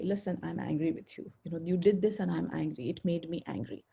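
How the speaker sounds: calmly owning the anger; calm and firm. Shown as a demonstration. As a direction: state your anger gently, no attack. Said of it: "You can say that calmly and politely and firmly".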